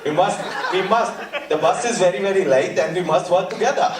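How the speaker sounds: lightly imitated South African director; South African accent. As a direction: urge teamwork in a mock South African accent. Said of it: "the director is South African".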